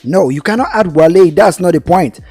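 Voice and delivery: insistent, heated disagreement; emphatic objection. Real, not acted. Argues against adding a name.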